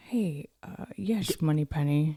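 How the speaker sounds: low, slushy Scottish impression; amateur suave spy impression; Sean Connery. Shown as a demonstration. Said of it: "He, he says, like".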